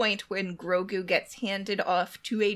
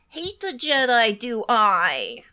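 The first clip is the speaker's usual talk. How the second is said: Yoda talk; 5 dB louder, slower than usual. Pretend. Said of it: "he does the Yoda talk".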